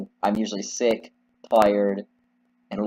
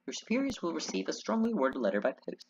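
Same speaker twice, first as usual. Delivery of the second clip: haughty, formal gentleman taking his leave; huffy Victorian customer; 11 semitones higher, 4 dB louder than usual. Acted.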